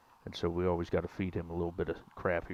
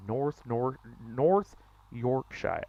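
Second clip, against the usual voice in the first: North Yorkshire drawn out slowly in a put-on British accent; slow British-style North Yorkshire; mock British accent; 2 semitones higher, slower than usual. Shown as a demonstration. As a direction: try North Yorkshire like a Brit. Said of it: "Maybe I gotta speak like a Brit".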